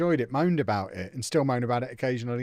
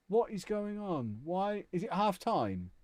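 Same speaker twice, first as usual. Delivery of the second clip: puzzled; 8 semitones higher, 3 dB quieter, slower than usual. Real, not acted. Puzzled at the game freezing.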